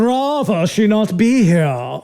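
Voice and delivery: put-on slow, prim mid-Atlantic accent. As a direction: clip it like an old-film mid-Atlantic lady. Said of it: "In the best mid-Atlantic accent she could come up with".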